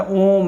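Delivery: ओम with the ओ held extra long; prolonged vowel. Shown as a demonstration. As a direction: stretch the vowel of ओम to triple length. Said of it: "इसमें तीन गुना समय लगता है".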